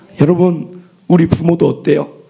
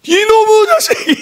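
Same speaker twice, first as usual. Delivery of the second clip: high, louder half-laughing scold; mock scolding; 3 dB louder than usual. Father scolding his cursing daughter, laughing as he yells. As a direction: playfully bellow at the naughty kid. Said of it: "그래서 제가".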